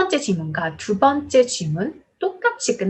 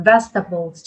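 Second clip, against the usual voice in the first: vegetables with the first syllable stressed; 2 semitones lower, 3 dB louder, much slower than usual. Shown as a demonstration. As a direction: punch the start of vegetables. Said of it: "전부 다 이름절 강세입니다". (vegetables의 첫 음절에 강세)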